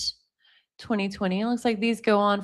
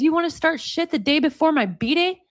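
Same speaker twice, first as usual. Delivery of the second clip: higher-pitched mock outrage; imitated indignant challenge; 5 semitones higher than usual. Girlfriend confronting boyfriend before her birthday, indignant read-out. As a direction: lift the pitch in retold indignation.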